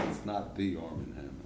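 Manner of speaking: "the" stressed, said as "thee"; single out "the" as "thee", meaning the famous one; emphatic THE. Retold or imitated. Distinguishes him from the famous one.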